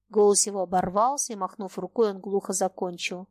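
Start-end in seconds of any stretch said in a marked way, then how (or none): none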